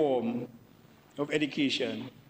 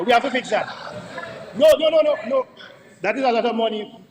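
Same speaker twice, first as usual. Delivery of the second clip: raised, insistent no no no; loud objection; 6 semitones higher, 8 dB louder, faster than usual. Real, not acted. MP to the Speaker, protesting the cost, loud insistent objection. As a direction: push back hard and loud against the waste.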